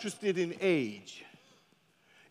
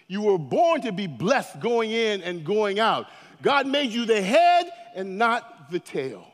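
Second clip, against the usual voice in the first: booming motivational speech; 2 semitones lower than usual. Acted. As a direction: proclaim it to lift the crowd. Preaching at full force.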